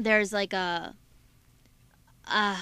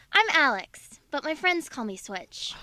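higher, punched-up cartoon character voice; Switch; 4 semitones higher than usual. Shown as a demonstration. Co-host asks for the voice, higher animated character voice. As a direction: introduce yourself as a cartoon character, pitched up. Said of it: "Do the voice".

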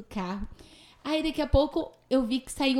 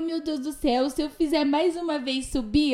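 retold panic; 5 semitones higher than usual. Retells her panic on the slope.

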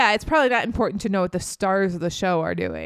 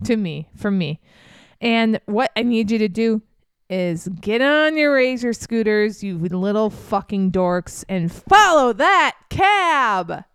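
bossy rallying order. Retold or imitated. Abby ordering nerds to chase.

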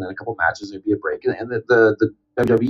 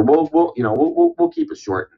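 much higher, breezy mock reassurance; reassuring; 5 semitones higher than usual. Wrestlers brush off the worried storyteller, high and breezy. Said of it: "then they're like".

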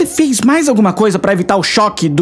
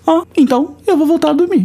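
sarcastic; 9 semitones higher than usual. Acted. Sarcastic retort.

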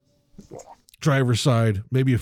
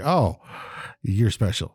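condescending; slower than usual. Retold or imitated. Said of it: "you're like".

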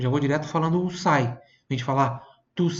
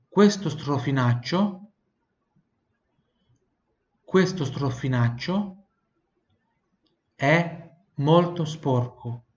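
slow, chunked "questo strofinaccio è molto sporco"; slow drill; much slower than usual. Shown as a demonstration. Teacher slowly repeats the sentence for students to copy. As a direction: break it up slowly, making the U in "questo" heard. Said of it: "tem que sair esse som do U".

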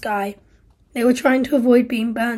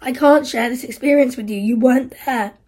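louder, bitter reproach; guilt and rebuke; 5 dB louder than usual. Acted. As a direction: turn the guilt on her. Steve confesses guilt, then rebukes Isla.

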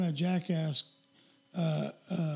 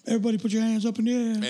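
fast, louder party shout; hype man call; 4 semitones higher, 4 dB louder, faster than usual. Retold or imitated. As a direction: hype the crowd like a rapper.

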